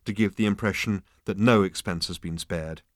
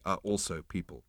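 quietly; 3 semitones lower, 9 dB quieter than usual. Acted. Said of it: "said Ford Prefect quietly".

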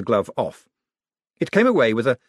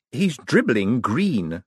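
urgent interjection; much slower than usual. A narrator's reading. Moist cutting in.

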